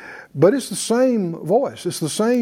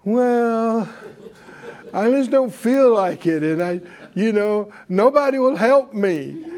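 weak, pitiful. Acted. Preacher mimicking a believer who gives in to feelings, mock pitiful. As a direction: imitate someone feeling sorry for themselves. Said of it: "can be weak and fleshy and go".

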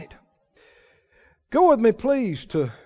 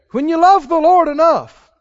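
preached louder; 7 semitones higher, 6 dB louder than usual. Real, not acted. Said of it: "repeated theme line".

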